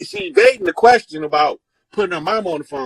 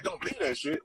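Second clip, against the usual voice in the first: higher, much softer disbelieving repeat; a quiet, high-pitched stunned echo of mama's line; 8 semitones higher, 13 dB quieter than usual. Retold or imitated. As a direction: echo her words back, baffled. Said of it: "And I'm looking at her like".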